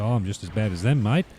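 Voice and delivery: lightly put-on Australian accent; a hint of imitation Australian accent. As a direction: quote him in a mock Australian accent. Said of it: "That was my Australian accent".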